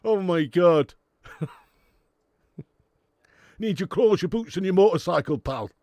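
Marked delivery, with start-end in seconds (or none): 3.6-5.7 Yorkshire Arnie. Pretend. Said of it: "Yorkshire Arnie".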